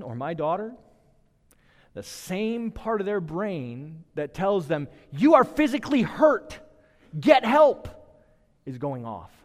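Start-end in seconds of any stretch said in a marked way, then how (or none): 5.1-7.9 loud, high, urgent call for help; a sudden raised cry of pain; urgent alarm cry. Retold or imitated. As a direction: shout it like a body's alarm. Brain's alarm voiced loudly.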